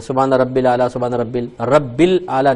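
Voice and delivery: mock the common mistake رب الاعلی; wrong pronunciation. Shown as a demonstration. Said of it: "نہیں ہے".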